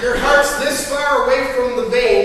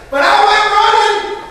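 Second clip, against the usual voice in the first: laughing through words; 8 semitones higher, 4 dB louder than usual. Real, not acted. Laughing while retelling the accident.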